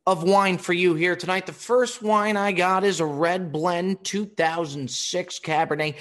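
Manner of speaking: loud, high showman's pitch, slow on the first lines; bellowing wine presentation; booming announcement. Retold or imitated. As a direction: announce the wines like a ringmaster to the room. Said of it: "And he's so fucking loud".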